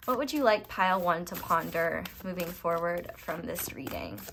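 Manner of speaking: unvoiced hushed question to spirit; whisper. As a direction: whisper it to the cards.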